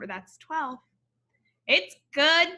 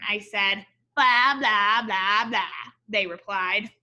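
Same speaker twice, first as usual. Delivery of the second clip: story narration. A narrator's reading. Reads picture book aloud.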